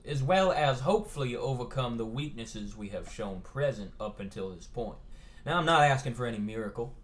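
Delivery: lightly voiced Southern headmaster speech; Southern gentleman. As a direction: address the students like a genteel Southern host. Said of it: "the Southern gentleman himself".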